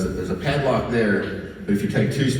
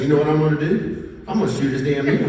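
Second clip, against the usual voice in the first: mock-furious, pitched higher; mock anger; 4 semitones higher, faster than usual. Pranking buddies, hammed-up angry threat. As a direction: fake outrage to fool his friends. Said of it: "play a trick on these guys".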